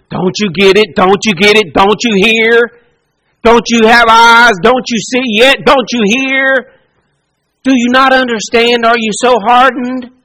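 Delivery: rising, exasperated questions pressed one after another; frustrated Jesus. Retold or imitated. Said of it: "That's a source of frustration".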